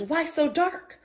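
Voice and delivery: unvoiced frightened whisper; child frightened in the rainforest; scared whisper. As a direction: whisper it into the dark.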